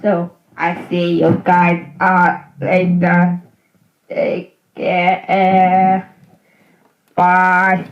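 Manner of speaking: loud sign-off; volume up. Real, not acted. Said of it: "Master of volume is up".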